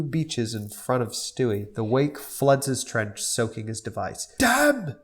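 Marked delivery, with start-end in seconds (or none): 4.4-4.9 mock curse. Stewie curses.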